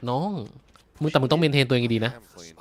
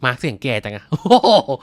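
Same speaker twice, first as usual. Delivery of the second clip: laughing; 4 dB louder, slower than usual. Real, not acted. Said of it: "laughing at Mark's voice".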